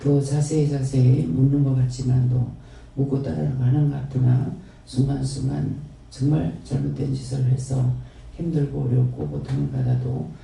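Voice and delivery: earnest, steady prayer voice addressed to the Father; closing prayer. Acted. Pastor closing the sermon in prayer to the Father, reverent prayer. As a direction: pray it reverently and evenly.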